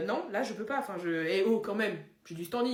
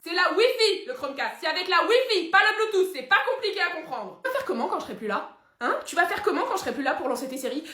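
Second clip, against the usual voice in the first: loud, high, scolding rant; exasperated rant; 5 semitones higher, 5 dB louder than usual. Acted. Son scolding his father over Netflix, loud exasperated rant. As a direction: scold him like a child.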